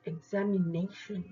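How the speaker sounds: "एग्जामिनेशन" slowly, with ने stressed; syllable stress demo. Shown as a demonstration. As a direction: draw the word "एग्जामिनेशन" out, leaning on ने. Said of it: "इस तरीके से आपके stress बोले जाते हैं".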